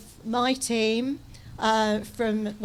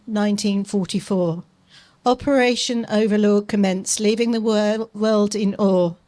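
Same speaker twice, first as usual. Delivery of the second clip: a solemn, measured tribute read a bit louder; formal reading; 4 dB louder than usual. Acted. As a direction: commemorative address read aloud to the crowd. Reads commemorative words.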